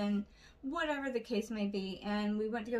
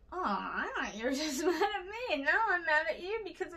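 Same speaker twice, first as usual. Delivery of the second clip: higher, quick, half-laughing protest; mock exasperation; 6 semitones higher than usual. Friend clearing up a misunderstanding, mock exasperated. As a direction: blurt it out with a laugh.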